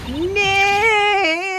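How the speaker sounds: high, drawn-out yell; long shouted call; loud shout. Acted. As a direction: holler the name to set off a sensor. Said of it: "Maybe I'm not saying it loud enough".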